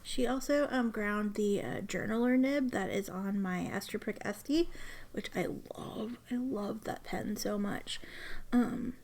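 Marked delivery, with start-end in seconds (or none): 5.1-8.0 awed whisper. Real, not acted. Gushing over a repaired pen.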